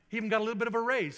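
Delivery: fast, loud and high with glee; real preacher's joy rising; triumphant. Real, not acted. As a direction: hit the payoff like good news shouted to the church. Triumphant payoff to congregation.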